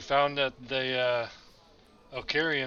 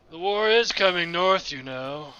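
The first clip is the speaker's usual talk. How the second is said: loud, higher, pointed remark; super loud; 4 semitones higher, 5 dB louder than usual. Pretend. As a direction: say it loud so they overhear. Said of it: "like, super loud".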